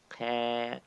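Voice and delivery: qa said while smiling, spread lips. Shown as a demonstration. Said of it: "When you smile".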